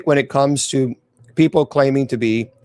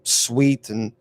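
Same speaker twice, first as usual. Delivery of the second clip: measured, suspenseful storytelling; scary story narration. A narrator's reading. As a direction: narrate a dark tale, pausing between phrases. Reads a scary tale.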